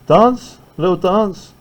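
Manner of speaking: high, rising coax; playful teacher nudge; coaxing question. Shown as a demonstration. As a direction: urge them up to dance. Urging students to dance.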